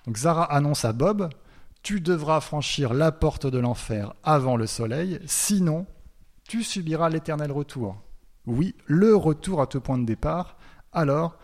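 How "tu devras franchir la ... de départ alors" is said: lightly menacing prophet. Retold or imitated. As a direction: warn him gravely like a prophet, lightly voiced. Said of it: "présenté comme une menace". (un soupçon de prophète menaçant, lent et solennel)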